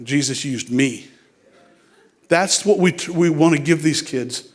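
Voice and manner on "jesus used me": put-on proud kid voice. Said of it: "he's like".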